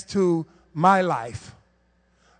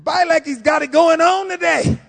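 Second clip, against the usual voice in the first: amazed; 6 semitones higher, 4 dB louder than usual. Retold or imitated. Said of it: "You be like".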